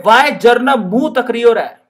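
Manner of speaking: mock scolding in a Rajasthani lilt; Rajasthani teacher. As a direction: play the teacher telling Jarnab off in Rajasthani style. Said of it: "madam कहती है".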